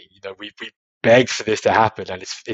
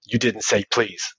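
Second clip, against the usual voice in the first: mock strict parent; 3 dB quieter, slower than usual. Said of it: "to then go".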